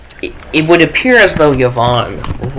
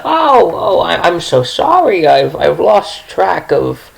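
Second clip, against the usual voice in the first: lightly voiced sweet old lady, higher and fluttery; a fussy little granny who lost track of time; sweet old woman; 5 semitones higher than usual. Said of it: "she's like".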